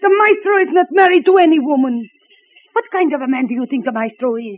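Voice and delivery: put-on indignant, in a thick Eastern European accent. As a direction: defend the maestro in a heavy Eastern European accent. Heavy foreign accent throughout.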